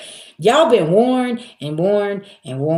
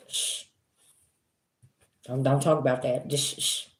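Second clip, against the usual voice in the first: hushed, breathy shh, much softer; shushing whisper; 5 semitones lower, 10 dB quieter than usual. Retold or imitated. Spirits telling her to stay quiet, whispered shushing. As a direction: hush yourself like being told to keep quiet. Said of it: "told me to sit down and be quiet".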